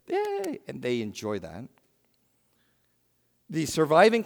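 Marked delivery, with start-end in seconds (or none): 0.1-0.6 mock cheer. Crowd cheering at the arena.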